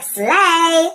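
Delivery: high, loud, long-held cheer; triumphant cry. Acted. Prince takes on the dragon, crying out loud. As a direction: call it out like a battle cry.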